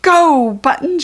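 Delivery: high, loud cheering shout. A narrator's reading. Rachel cheering Buttons on after the goblin, shouting. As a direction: urge the dog on at full voice. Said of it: "shouted Rachel".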